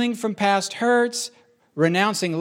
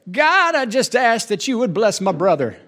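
church prayer; 3 semitones higher than usual. Acted. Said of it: "You're praying in church for somebody".

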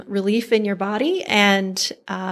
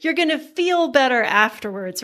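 higher, lightly put-on husband voice; imitating Doug; 5 semitones higher than usual. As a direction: play the husband cheerfully glad she's crying. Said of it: "I've trained to Doug, Doug to say".

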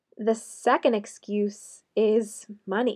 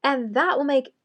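sarcastic; 3 semitones higher than usual. Acted. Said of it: "you can start to hear the sarcasm come out of my voice".

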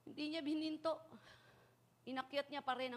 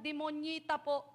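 put-on child; 4 semitones higher, slower than usual. Child answers policeman.

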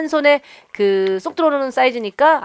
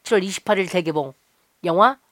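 movie trailer voice. Acted. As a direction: announce it like a thriller trailer. Reads movie ad intro.

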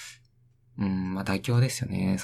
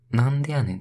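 quoted retort; 4 semitones higher, 5 dB louder than usual. Shown as a demonstration. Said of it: "使っちゃダメみたいなの".

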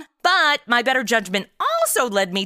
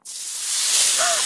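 sharp gasp. Real, not acted. Spaghetti sauce boils over.

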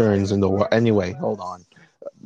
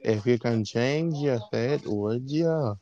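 softer Scottish accent as Merida; a quieter Scottish lilt; 5 dB quieter than usual. Shown as a demonstration. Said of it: "I only know how to do a Scottish accent".

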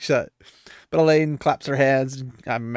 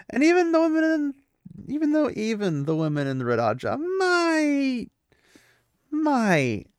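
laughing; 12 semitones higher than usual. Real, not acted. Laughing aside about Galad.

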